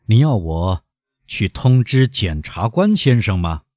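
measured, crisply articulated question; deliberate, resonant delivery; clear, ringing enunciation. A narrator's reading. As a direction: give each word clear weight. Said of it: "咬字清晰， 声音响亮".

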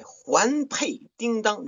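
环佩叮当 drawn out high and slow, each syllable bitten off; storyteller crispness on 环佩叮当; crisp idiom. Shown as a demonstration. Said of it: "咬得特别的清晰".

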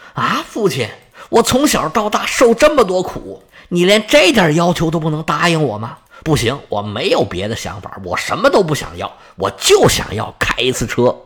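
hurt, rising protest; indignant outburst. Acted. The son, refused by his father, flares up in protest. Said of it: "当时就蹿儿了".

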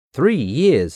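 disbelieving question; shocked repeat; surprised. Acted. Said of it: "for three years".

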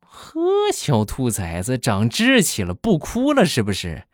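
mocking, taunting scold, slow at first; a mother sneering at her silent kid; mother taunts the child who refuses to cry; sneering mom. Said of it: "你们猜我妈是什么反应？".

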